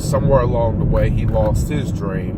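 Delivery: slow, with drawn-out phrase endings; long pauses between thoughts; slow speech. Real, not acted. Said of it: "Sorry I'm speaking so slow".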